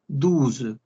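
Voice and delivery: Douze said as duz, OU like U; French douze. Shown as a demonstration. Teacher models French twelve: Douze pronounced duz. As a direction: Douze with OU as a U sound and final z. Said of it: "La O y la U suena como una U".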